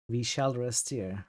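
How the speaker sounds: a Turkish accent overlapped with a French one on "We shall rest here", slow and soft; showing chat the mixed Turkish-French accent. Shown as a demonstration. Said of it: "how does that sound like a Turkish accent, uh, overlapped with a standard French accent".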